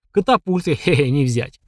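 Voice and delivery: chuckling through the words; a sly little laugh mid-line; giggly sinister sing-song. Acted. Sigurd chuckles at wall.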